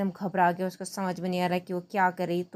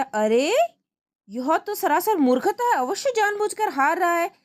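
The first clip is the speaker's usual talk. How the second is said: raised high voice of an irritated king; angry king; 8 semitones higher, 3 dB louder than usual. Acted. King accusing Tenali of losing on purpose, raised voice. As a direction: scold the player as a suspicious king.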